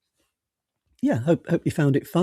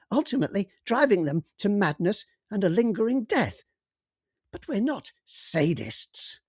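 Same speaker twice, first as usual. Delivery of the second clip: higher, matter-of-fact alien voice; cheerful alien; 5 semitones higher than usual. Acted. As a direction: calmly explain the horror as an alien. Rawgib explaining alien cruelty.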